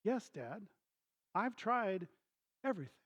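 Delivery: hushed, halting reply; soft, with spaced-out words; restrained frustration. Retold or imitated. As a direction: imitate a son holding in exasperation. Son answers dad with restrained frustration.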